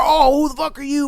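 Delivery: high-pitched mock confrontation; imitated angry boyfriend. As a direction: play the riled-up challenger, lightly. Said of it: "he wanna get all angry at me".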